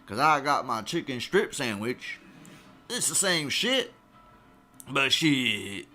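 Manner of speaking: hint of a southern twang; KFC southern accent. Chicken chain going toe-to-toe with Whataburger, mild southern accent. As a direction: challenge the rival with a light southern accent. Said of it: "I also have a southern accent".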